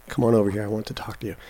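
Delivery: put-on soft, understated Brooklyn accent; hushed Brooklyn line, fading very quiet; Ryan Gosling's Brooklyn accent. Host announces his impression to co-host, quiet Brooklyn accent. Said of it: "Ryan Gosling".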